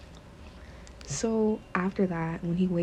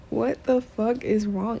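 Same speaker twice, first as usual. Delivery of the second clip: mock exasperated shout; 5 semitones higher, 5 dB louder, slower than usual. Husband shouts at wife.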